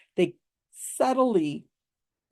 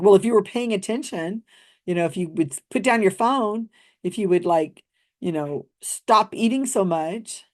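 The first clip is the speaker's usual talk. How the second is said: a hint of a mean-spirited relative; lightly mock the cruel little put-down; snide bully; 2 semitones higher than usual. Imitating a snide family member scolding, mild mock. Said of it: "it's like a bully".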